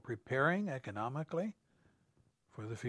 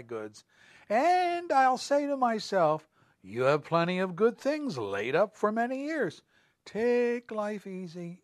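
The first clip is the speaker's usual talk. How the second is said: smug rich farmer; 3 semitones higher than usual. Acted. Rich farmer's plan voiced.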